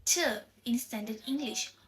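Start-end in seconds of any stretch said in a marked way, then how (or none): 0.1-0.2 to reduced to a quick t with a schwa vowel. Shown as a demonstration. Student demonstrating the reduced standard English vowel in to. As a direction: clip to down to a weak t. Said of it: "the word to itself become t".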